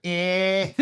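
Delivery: drawn-out Scouse "Eh"; Scouse accent. Shown as a demonstration. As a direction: give a stereotypical Scouse "Eh". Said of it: "Anyone can do a Scouse accent".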